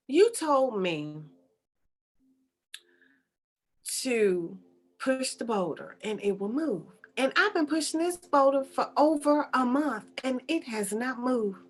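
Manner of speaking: restrained, deliberate complaint with long pauses; understated acted exasperation; mildly irritated. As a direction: spell it out with contained annoyance. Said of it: "I'm a little irritated right now".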